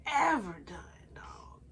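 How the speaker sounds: tearful whisper, slowed; voice breaking. Real, not acted. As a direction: let it crack with tears. Cry heard on line.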